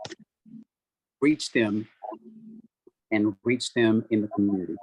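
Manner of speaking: glitchy, breaking-up video call audio; choppy robotic call connection. Real, not acted. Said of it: "Your audio is breaking up just a bit".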